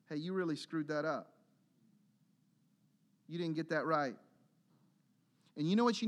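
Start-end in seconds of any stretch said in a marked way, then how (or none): 0.1-4.1 gentle conviction. Acted. Voicing the Spirit's gentle conviction.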